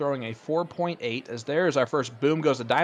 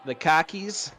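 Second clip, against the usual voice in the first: playful put-on Boston accent; 3 semitones higher, slower than usual. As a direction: drop the R like a Bostonian. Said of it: "all their R's".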